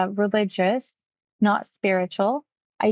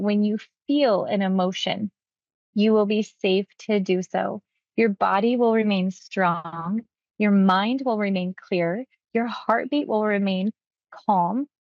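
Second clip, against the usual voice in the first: hypnotic suggestion. Shown as a demonstration. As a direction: lay each suggestion down calmly.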